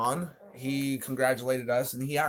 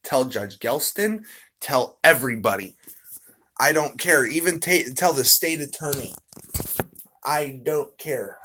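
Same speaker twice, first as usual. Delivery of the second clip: excited retelling; 3 semitones higher, 6 dB louder than usual. Retold or imitated. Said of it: "I'm like".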